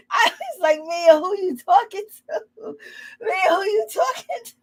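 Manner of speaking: high, giggling through the lines; laughing. Real, not acted. Laughing as she recaps Mia to viewers. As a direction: laugh while repeating it. Cracking up recapping Mia's line.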